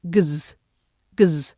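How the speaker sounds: "gz" as a hard G buzzing into Z; voiced X sound. Shown as a demonstration. Teacher shows learners the X sound, voiced "gz". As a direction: voice the "gz" right through. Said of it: "and the voiced way".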